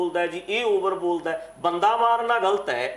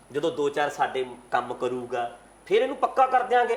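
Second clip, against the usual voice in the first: normal talking voice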